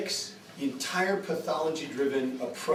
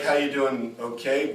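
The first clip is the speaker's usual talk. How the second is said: slightly lower, even, easygoing check-in; low-key greeting; 3 semitones lower, slower than usual. Acted. Son greeting his more reserved dad, low-key. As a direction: keep the greeting down and contained. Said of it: "this dad, I'd be like".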